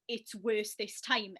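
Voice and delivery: drawn out very slowly, word by word; slow echo. Retold or imitated. Friend echoing what the doctor said, slowed right down. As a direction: let each word land slowly like it's sinking in. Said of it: "all you probably heard was".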